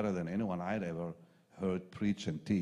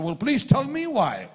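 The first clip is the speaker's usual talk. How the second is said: indignant demand; 14 semitones higher, 11 dB louder than usual. Retold or imitated. Pastor retells confronting Roy.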